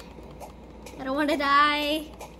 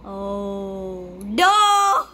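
frightened shout; 6 semitones lower, 7 dB louder than usual. Real, not acted. Monster attacks.

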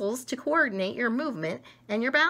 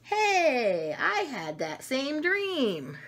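lightly voiced kid; 5 semitones higher, much slower than usual. Character in the book.

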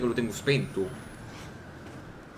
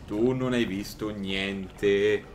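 lower, very slow intoning; mock hypnotist; 4 semitones lower, much slower than usual. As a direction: drag every word like a hypnotist. Ripete più basso e lento. (tono lento e ipnotico)

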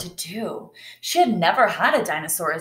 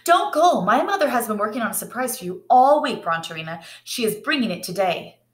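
put-on urgent girl; 3 semitones higher than usual. Clara urges Bronterina to stay.

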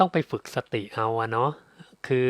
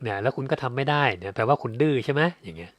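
ordinary talk, nothing marked

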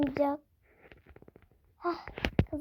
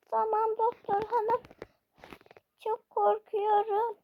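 put-on higher, timid child voice; scared little girl; 4 semitones higher than usual. Daughter telling the doctor she is scared, in a higher timid child voice. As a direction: play the frightened daughter.

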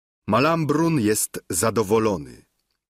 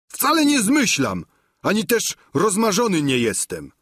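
Sancho protesting; 9 semitones higher than usual. A narrator's reading. Sancho protests to his master, high and indignant. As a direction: insist hotly you are not lying.

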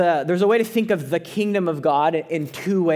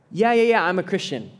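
dismissive brush-off; 3 semitones higher than usual. Acted. Preacher voices a complacent churchgoer, dismissive. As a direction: brush it off like it's old news. Voicing a complacent nominal Christian.

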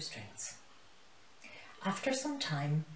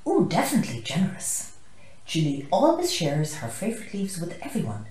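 croaking; 7 dB louder than usual. Acted. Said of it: "Hilo the hippo croaked".

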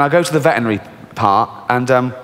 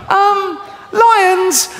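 much higher, shouted goat answer; goat squeal. Retold or imitated. Goat telling the charity worker why, shrill shout. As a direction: blurt it out as a terrified goat. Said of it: "goat answering".

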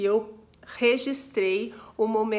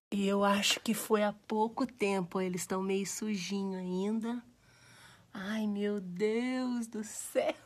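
whisper; 6 dB quieter than usual. Real, not acted. Whispering near newborn kittens.

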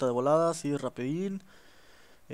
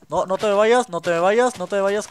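pleading shout; 4 semitones higher, 7 dB louder than usual. Real, not acted. Chasing a fleeing pig.

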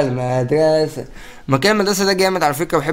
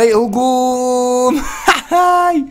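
high, drawn-out attack cry; stretched, laughing call to attack; hyped battle cry; 8 semitones higher, 3 dB louder, much slower than usual. Real, not acted. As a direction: cheer the charge like a war whoop.

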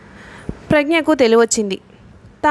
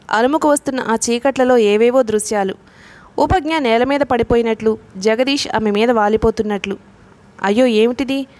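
plain reading voice

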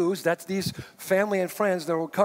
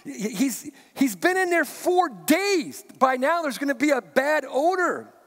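a hint of halting, worried protest, pitched higher; stuttering, anxious Martha; 5 semitones higher than usual. Martha stammering to Jesus about the tomb, higher and halting. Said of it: "so I can hear her stuttering".

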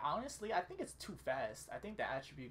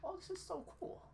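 excited; 12 semitones higher than usual. Real, not acted. Excited about the game.

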